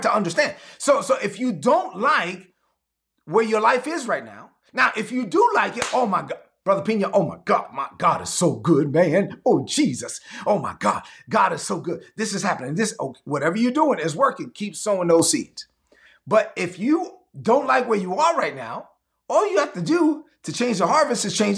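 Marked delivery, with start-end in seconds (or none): 5.9-15.7 low, breathy, overjoyed church member; mock gushing praise. Preacher imitating a blessed member praising God, gushing. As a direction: gush like someone blessed beyond words. Voicing a happy congregant.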